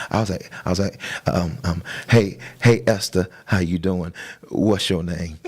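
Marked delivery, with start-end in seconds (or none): 2.1-5.4 imitating his own nervous, awkward greeting; lightly acted nerves, opening with a loud hey; nervioso al presentarse. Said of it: "so I was so nervous".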